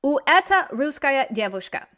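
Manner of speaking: whispered quote of the mistake. Shown as a demonstration. Teacher whispering the student's error while checking it. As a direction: whisper the wrong phrase to herself. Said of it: "So let's see".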